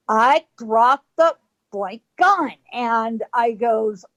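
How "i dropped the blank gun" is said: slow order with weighty pauses; measured command. Retold or imitated. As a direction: repeat the warning slowly, word by word. The order retold a second time.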